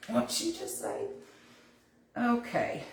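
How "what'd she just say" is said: lightly mocked puzzled listener, pitched higher; mock confusion, softer and broken by a laugh; baffled listener. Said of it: "aren't from the South probably heard".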